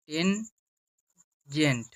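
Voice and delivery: tangent said slowly and fully, ten-gent; full word tangent. Shown as a demonstration. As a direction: stretch out tangent. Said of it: "অপর নাম হচ্ছে tangent".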